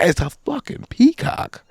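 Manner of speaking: high, slow, drawn-out squawk; rough peacock call; mock peacock screech. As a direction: stretch it into a bird cry. Hearing a peacock's cry.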